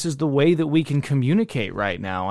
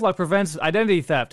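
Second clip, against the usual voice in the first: quick, slightly raised sponsor plug; mock ad read; 3 semitones higher, much faster than usual. Host angling for a LifeLock sponsorship, mock ad read. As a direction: rattle off a joke slogan like an ad. Jokingly plugs a would-be sponsor.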